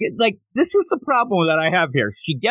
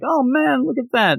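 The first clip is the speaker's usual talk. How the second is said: leering bros; 8 semitones higher than usual. Retold or imitated. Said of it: "the sus boys are like".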